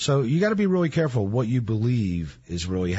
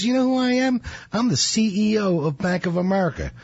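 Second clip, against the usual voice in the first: pitched-up mock outrage, pulling rank; indignant CEO; 6 semitones higher than usual. CEO confronting the robber, mock indignant and pitched up. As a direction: puff up like a big-shot banker. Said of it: "He goes".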